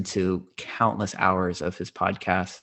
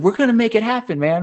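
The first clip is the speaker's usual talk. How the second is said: laid-back stoner voice; 14 semitones higher, 7 dB louder, faster than usual. Retold or imitated. Quoting Duncan's promise.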